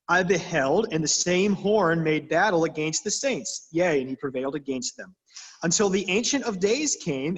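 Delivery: put-on reading the old Bible out, steady and formal; a touch of solemn King James reading; scripture reading. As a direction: read it like a lectern reading. Reads scripture passage aloud.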